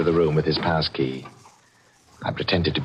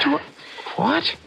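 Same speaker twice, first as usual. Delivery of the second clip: incredulous squeak on what; a stunned high yelp at the price; shocked disbelief. Acted. Buyer stunned at the pawnbroker's price, incredulous.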